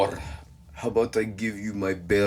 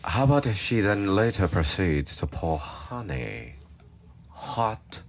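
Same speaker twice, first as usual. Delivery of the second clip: put-on UK accent; 2 semitones lower, 3 dB quieter than usual. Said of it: "talk like people from U K".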